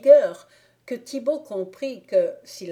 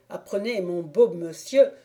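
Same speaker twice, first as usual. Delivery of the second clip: louder, mild menace; threatening Thibault; 4 dB louder than usual. Acted. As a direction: warn him off.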